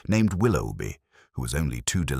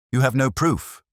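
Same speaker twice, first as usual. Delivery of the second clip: hissed denial, higher and sharp; 8 semitones higher, 4 dB louder than usual. A narrator's reading. Cornered Grant defies Holmes, hissed. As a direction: spit the denial through teeth. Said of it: "Grant hissed".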